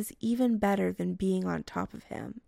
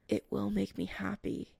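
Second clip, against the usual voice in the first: soft drowsy mumble; mumbling; 6 dB quieter than usual. Acted. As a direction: murmur it half asleep. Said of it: "Chris mumbles".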